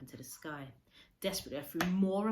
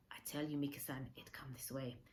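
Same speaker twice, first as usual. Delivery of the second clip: hushed insistence; 4 semitones lower, 6 dB quieter than usual. Acted. Old man quietly insisting.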